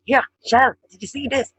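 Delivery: shouting to grab her attention; roaring. Shown as a demonstration. Dubliner grabbing friend Shell's attention, loud roaring call. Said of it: "kinda roaring at that stage".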